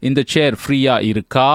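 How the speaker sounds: closed question with "இருக்கா" pushed on its final vowel; inflected question. Shown as a demonstration. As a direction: punch the ending "aa" of "இருக்கா". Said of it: "there is an inflection".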